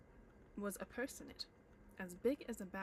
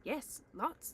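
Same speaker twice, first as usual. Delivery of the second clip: hobbit blurt; 6 semitones higher, 5 dB louder than usual. Acted. Bilbo blurts.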